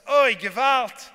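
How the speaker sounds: slow, loud wail of dismay; dismayed oy gewalt. Retold or imitated. Wife to husband over the lemon, slow loud wail. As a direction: stretch it out like a horrified wife.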